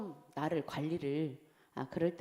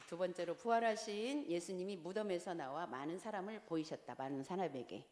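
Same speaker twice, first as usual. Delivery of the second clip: soft, subdued recital from the notes; reading aloud; 10 dB quieter than usual. Real, not acted. Teacher reading a lesson point to the group, reading aloud. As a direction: read the study point out softly.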